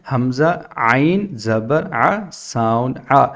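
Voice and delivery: measured sing-song, one element at a time; classroom spelling recitation. Shown as a demonstration. Teacher summing up the three steps, sing-song spelling recitation. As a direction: lay out each step separately, then its sound.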